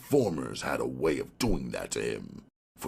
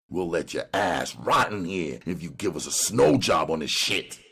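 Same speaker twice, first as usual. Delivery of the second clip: hard, threatening detective; tough cop voice; 9 semitones higher, 4 dB louder than usual. Acted. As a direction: lean on him like a cop. Ryan lays down terms.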